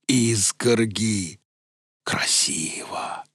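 slow dazed voice fading to whisper. Acted. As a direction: marvel slowly, then whisper. Veles dreamy, fading whisper.

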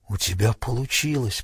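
soft whisper of relief to his partner. Acted. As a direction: barely breathe the words out, quietly. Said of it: "прошептал он".

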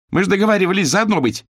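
put-on girl shouting at the older worker for betrayal. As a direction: yell it as a betrayed striker. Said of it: "крикнула Саласкина".

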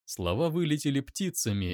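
usual speaking voice

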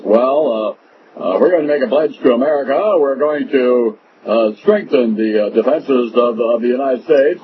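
lightly voiced blustering politician, a bit fast; a hint of a pompous congressman making a pledge; mock John Boner. The host mocks John Boner's pledge, lightly imitating him. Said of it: "he talks like this".

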